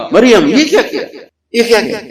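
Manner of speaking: high, laughing scornful jab; mocking taunt. Townsfolk taunting Maryam, high mocking scorn. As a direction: scoff at her as the crowd would. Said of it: "تین طرح سے طنز کیا ان کو".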